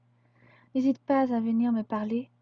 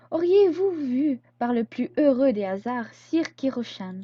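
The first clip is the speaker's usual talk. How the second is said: slow, hammed-up courtly politeness, louder at the start; mock formal; 5 dB louder, slower than usual. Sarah teasing Chrome with a slow mock-courtly question. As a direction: put on grand airs to tease him.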